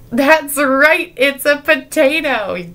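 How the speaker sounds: high, loud, drawn-out announcement; hammed-up reveal. Real, not acted. Speaker confirming the children's guess at the third potato, hammed-up reveal. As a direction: stretch it out like a big reveal.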